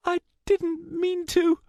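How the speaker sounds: high, distressed halting voice; stunned high-pitched regret; horrified apology. A narrator's reading. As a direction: plead your innocence in shock. Shocked after wounding her friend.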